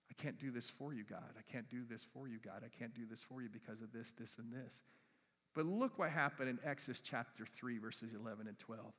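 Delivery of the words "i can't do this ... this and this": much softer, sinking excuses; mock Moses' excuses. Moses pleading reasons to God, soft and sinking. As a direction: mumble the excuses like a reluctant Moses. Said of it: "Moses starts ticking off all the reasons".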